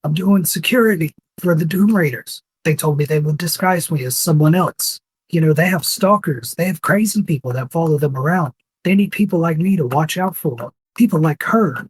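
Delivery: pleading touch to an orc impression; imitation orc. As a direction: explain yourself as a mildly put-on orc. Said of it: "in this imitation of an orc's voice".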